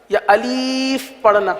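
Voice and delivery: "الیف" with a long ee, slow; slow demo of the wrong "الیف"; wrong pronunciation. Shown as a demonstration. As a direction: stretch "الیف" into a-leef. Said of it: "یہ غلط ہے".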